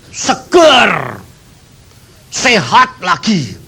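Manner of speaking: cheerful, lifted voice of the recovered man; high happy report. Retold or imitated. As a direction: sound glad he is well again. Sick man reports recovery by phone. (suara gembira orang yang sudah sehat)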